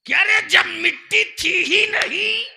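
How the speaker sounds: high, loud pulpit cry; full-force preaching shout; shouted challenge. Real, not acted. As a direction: hurl the question at the congregation. Repeats line as shouted challenge.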